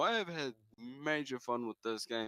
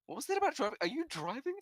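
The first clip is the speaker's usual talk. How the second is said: puzzled caller; faster than usual. Retold or imitated.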